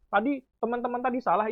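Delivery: lightly acted put-down of opponents; belittling. Shown as a demonstration. Debater tells the other team they erred, mildly belittling. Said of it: "itu mengecilkan orang dengan cara seperti ini".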